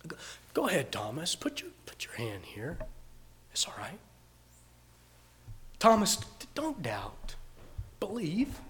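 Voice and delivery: soft, hushed reassurance; gentle whisper. Acted. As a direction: coax him in a whisper. Jesus gently invites Thomas to touch.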